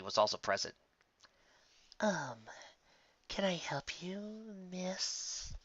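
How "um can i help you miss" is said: softer, higher hesitant question; tentative. Acted. Sandalwood greets the unhappy customer, soft and unsure. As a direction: ask timidly, trailing away. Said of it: "asked Sandalwood".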